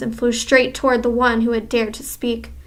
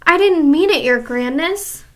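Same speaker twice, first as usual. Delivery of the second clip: higher, louder pleading witch; frightened plea; 5 semitones higher, 4 dB louder than usual. Acted. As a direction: beg forgiveness in fright. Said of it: "the witch cried out".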